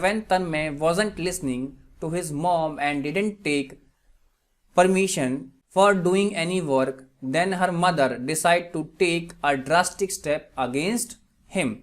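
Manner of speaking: very slow, spaced-out example reading; slow dictation. Shown as a demonstration. Teacher gives students an English translation, slow dictation. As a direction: read it out slowly, phrase by phrase. Repeats example sentence slowly.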